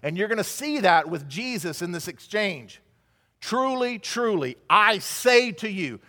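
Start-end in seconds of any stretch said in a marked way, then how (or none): 3.4-6.0 "Truly, truly" set apart, then "I say to you" drawn out slowly; weight each "truly" and stretch "I say to you"; "Truly, truly, I say to you" as a weighty announcement; solemn emphasis. Acted. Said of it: "He is emphasizing that this is very important".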